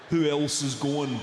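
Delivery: milk the question like a nosy mate; mock whiny friend. Friend replying to the group text, slow mock whine. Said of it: "dealing with people's replies".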